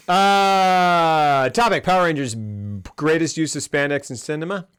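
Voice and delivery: upbeat announcer topic intro; show host voice. Acted.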